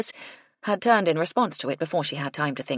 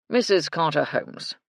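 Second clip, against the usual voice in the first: pompous voice; 4 dB louder than usual. Acted. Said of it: "in his pompous voice".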